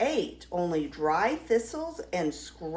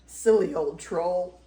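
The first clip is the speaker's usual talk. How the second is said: giggling; 3 semitones lower, 3 dB louder than usual. Acted. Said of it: "he giggled".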